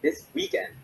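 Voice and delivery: "This weekend" pitched high for emphasis; emphatic, high-pitched "This weekend"; stress on WEEKEND. Shown as a demonstration. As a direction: lift "This weekend" up high to mark the topic. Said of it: "we would use emphasis".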